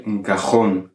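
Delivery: "un cajón" stressed on JÓN; stress on last syllable. Shown as a demonstration. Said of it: "On va accentuer la dernière syllabe".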